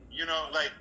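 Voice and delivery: ordinary delivery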